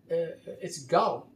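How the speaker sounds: slow, drawn-out mock of a TV ad lady; commercial lady quote. Quoting a commercial lady to his viewers, slow mock delivery. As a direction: let "gone" sink slowly like the woman in the ad. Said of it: "I'm quoting a lady that I see in a commercial".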